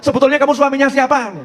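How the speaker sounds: high-pitched imitated wifely outburst; mock angry yelling. Wife confronting her late husband, mock angry yelling. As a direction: demand it like a fed-up wife. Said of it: "teriakan-teriakan begitu".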